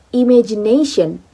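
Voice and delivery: "imagination" with the main stress on NA; primary stress on NA. Shown as a demonstration. Teacher demonstrates primary stress to students, stress on NA. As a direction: stress "imagination" as imagi-NA-tion, falling after. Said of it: "ne, has a primary stress".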